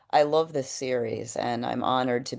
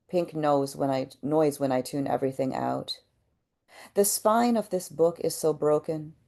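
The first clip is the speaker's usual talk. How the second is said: measured poetry reading with pauses after each line; poem reading. Acted. Poet reads to a kind audience, measured poem reading. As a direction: read it as verse, letting each line land.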